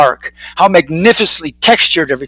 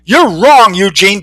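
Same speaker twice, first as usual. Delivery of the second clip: insistent; 3 semitones higher, 4 dB louder, slower than usual. Acted. Fervent convert contradicts his friend.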